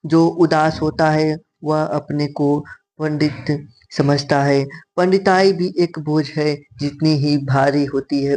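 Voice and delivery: slow, measured textbook read-out; reading a passage aloud. Acted. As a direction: read it out slowly, phrase by phrase. Reads exam passage aloud.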